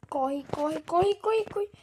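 frantic shouting while fleeing; being chased. Real, not acted. Fleeing a monster in game.

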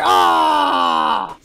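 drawn-out open "ah" yell; long yell. Real, not acted. Gamer caught after waiting, long yell. Player hit while waiting.

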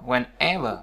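slow "whenever" stressed on -ever; teacher's slow demonstration of "whenever". Shown as a demonstration. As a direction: draw out "whenever", leaning on "ever". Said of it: "ấn là ever luôn".

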